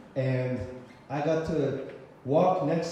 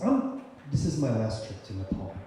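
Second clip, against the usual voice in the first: low, subdued admission; understated, heavy-hearted farewell; retold sadness; 5 semitones lower than usual. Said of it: "with the saddest look on his face".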